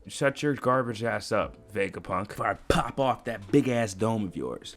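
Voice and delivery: lightly voiced lazy threat; chill dismissive elder. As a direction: brush him off without raising your voice. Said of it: "He's just all chill".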